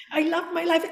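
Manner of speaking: imitating a client finally going for it, high-pitched; all-out affirmation. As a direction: belt out the affirmation with lifted pitch. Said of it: "You can go all the way up".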